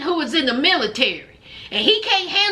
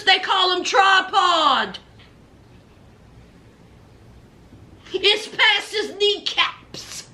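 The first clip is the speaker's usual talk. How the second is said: taunting rant; 2 semitones higher than usual. Retold or imitated. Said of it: "Jasmine says".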